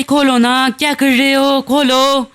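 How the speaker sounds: mild impatience at a closed door; urgent pleading. Acted. Character pounds door, begging entry.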